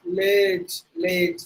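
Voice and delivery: Village with "layj" at the end; long second vowel. Shown as a demonstration. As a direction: draw out the last vowel of Village. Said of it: "நெடில் sound கொடுக்குறோம்".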